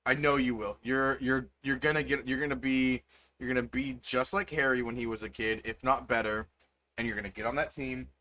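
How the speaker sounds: soft, proud, smiling encouragement. Acted. Mom encouraging her son over the phone, smiling. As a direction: reassure him with a smile in the voice. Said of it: "you can hear the smile in her voice".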